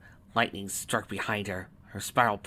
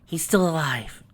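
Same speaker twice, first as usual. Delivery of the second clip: raised, slow announcement of relief; confirming; 7 semitones higher, slower than usual. A narrator's reading. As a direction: confirm it higher and drawn out. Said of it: "she confirmed".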